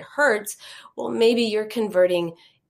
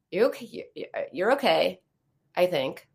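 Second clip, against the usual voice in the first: doubtful; 3 semitones lower than usual. Shown as a demonstration. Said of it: "You wouldn't say that to a friend".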